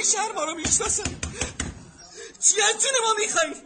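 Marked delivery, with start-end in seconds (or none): 2.4-3.5 tearful angry shout. Acted. Desperate father shouts at the crowd.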